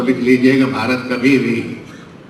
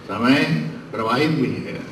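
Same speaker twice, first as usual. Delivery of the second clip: समय प्रवाहित भी है said much softer, falling on प्रवाहित; soft echo; 6 dB quieter than usual. Real, not acted. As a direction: let the maxim fade away. Orator repeats maxim. (धीमी गूंज की तरह)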